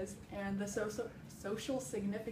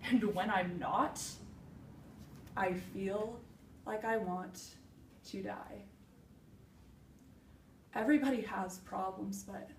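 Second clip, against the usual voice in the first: reflective, with long weighted pauses; dramatic monologue. Acted. Woman looking back on her hike and her mother's death, reflective dramatic monologue. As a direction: let each thought land before the next, like a stage confession.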